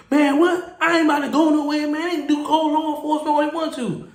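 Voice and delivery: high, defiant mimicked protest; snapping back. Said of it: "black people get the snapping".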